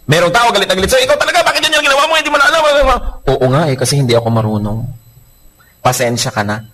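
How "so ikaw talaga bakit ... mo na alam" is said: mock angry scolding. Angry person scolds spouse.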